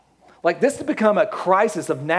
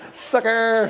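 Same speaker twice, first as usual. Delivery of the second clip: laughing jab; 6 semitones higher than usual. Real, not acted. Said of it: "laughing jab at council".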